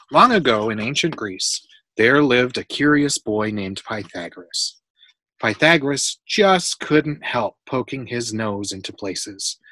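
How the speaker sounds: clear, animated read-aloud; storybook reading. A narrator's reading. Adult reading a Pythagoras book to a child, storybook reading.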